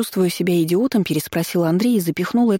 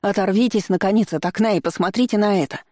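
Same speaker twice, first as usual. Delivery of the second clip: yelling; 5 semitones higher than usual. Acted. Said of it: "завопила она".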